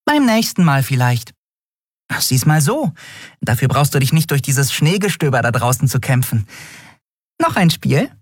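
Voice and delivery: high-pitched, encouraging little friend; upbeat Nelen. Acted. Nelen offers Miko another game, high and encouraging. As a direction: cheer him up in a high voice.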